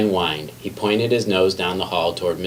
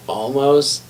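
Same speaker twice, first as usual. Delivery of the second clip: stretched out slow and higher, reaching; straining reach; 6 semitones higher, 3 dB louder, much slower than usual. A narrator's reading. Librarian reaching for a high book, slow and straining. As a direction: draw it out as if straining on tiptoe. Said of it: "she said".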